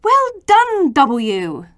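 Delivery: high, loud praise; letters cheering V together; cheering chorus. Acted. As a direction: cheer him on with delight. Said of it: "The children cried".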